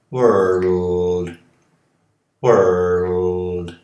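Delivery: world, with the L drawn out as its own syllable; world with a syllabic L. Shown as a demonstration. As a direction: say world as three syllables, giving the L a full syllable. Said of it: "Tentem falar mundo como três sílabas". (mundo com o L como sílaba própria)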